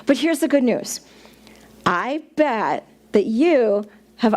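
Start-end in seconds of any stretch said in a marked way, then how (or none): none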